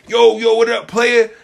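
coworker's put-on slang. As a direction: imitate someone trying too hard to sound cool. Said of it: "He see me".

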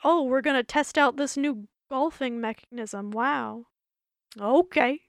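lightly voiced fake news anchor; a half-hearted, bad character impression; Bobo. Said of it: "Bobo impression".

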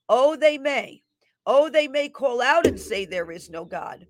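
fervent prophetic declaration; prophetic proclamation. Acted. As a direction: proclaim it like a prophet over the crowd. Reads a prophetic word.

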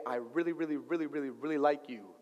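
low, soft retold sweet talk; tender. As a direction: stack the words up gently.

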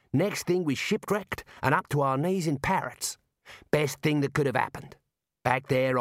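lightly voiced easygoing dwarf; dwarf Mad. Mad telling Rincewind how his family arrived, lightly voiced dwarf. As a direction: tell the shipwreck tale as a contented dwarf.

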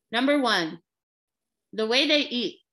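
talking while chewing; mouth full. Real, not acted. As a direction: speak through a mouthful of food. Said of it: "as I'm talking with my mouth full".

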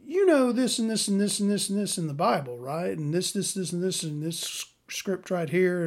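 a hint of a preachy know-it-all; lecturing know-it-all. Mocking the Bible guy lecturing her. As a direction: rattle off scripture smugly. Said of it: "he would turn to me and go".

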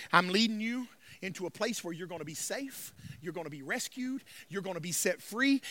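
low, soft reassurance; gentle divine promise. Retold or imitated. God promising rescue to the animals, low and gentle. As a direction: drop the voice low and quiet.

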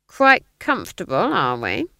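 smug, taunting question; gloating. Acted. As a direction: savour the prisoner's discomfort. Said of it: "one of nature's gloaters".

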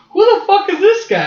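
high, loud disbelief; what the hell, who is this; incredulous outburst. Retold or imitated. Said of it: "We're like".

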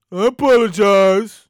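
low, slow, dismissive I apologize; sarcastic imitation of a shrug sorry; mock apology. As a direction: toss off a fake apology.

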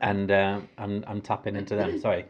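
talking while crunching chocolates; crunching chips. Real, not acted. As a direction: mouth full of crunchy sweets. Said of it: "if you can hear me crunching".

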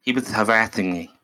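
"harassing" said with a th lisp, "harathing"; mock speech impediment, "harathing". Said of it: "it's literally a speech impediment".

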